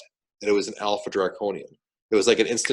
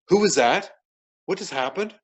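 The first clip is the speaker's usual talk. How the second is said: higher-pitched imitated bewildered questions; stunned onlookers; 8 semitones higher than usual. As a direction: ask as if shaken by what you saw.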